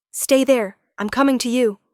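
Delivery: high, loud, urgent order; urgent command. Acted. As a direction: insist with rising urgency. Urgent, rushing to her.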